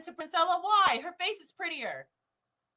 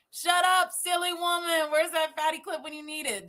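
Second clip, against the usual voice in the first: louder, higher mock scolding; hammed-up, raised-voice put-down; mocking dismissal; 3 semitones higher, 5 dB louder than usual. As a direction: parody a man talking over a woman. Mocking his dismissal of her.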